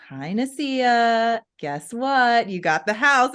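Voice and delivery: slow, drawn-out, bright hello; cheerful news. Retold or imitated. Realtor Beth phoning to say they got the house, cheerful. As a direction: announce the good news with delight. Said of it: "She goes".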